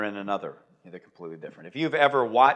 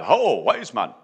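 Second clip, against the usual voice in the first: stage Indian role; 4 semitones lower, 3 dB louder, slower than usual. Acted. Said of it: "they don't speak like that".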